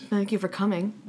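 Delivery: low, softened performer's greeting; hushed stage welcome. Acted. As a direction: quietly play the show opener. Acts improv performers greeting audience.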